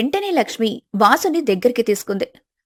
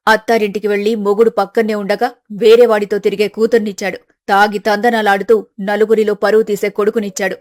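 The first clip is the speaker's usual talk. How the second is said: bitter mother; 2 semitones lower, 4 dB louder than usual. Acted. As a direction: pour out her grievance against God. Narrator voices bitter mother.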